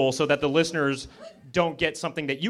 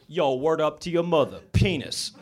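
lightly voiced old-school rapper; a hint of eighties rap swagger. Shown as a demonstration. Comic demonstrating eighties rap slang, lightly put-on rapper voice. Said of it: "nineteen eighties rap music".

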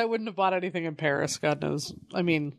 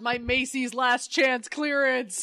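mock crying; 3 semitones higher, 4 dB louder, slower than usual. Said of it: "acting out superhero bag shot".

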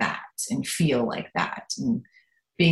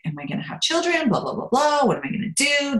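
higher, fretful questions, a mock shout at the end; mock worried friend; 9 semitones higher, faster than usual. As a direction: imitate a friend fussing over her future. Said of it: "Jennifer Garris, like".

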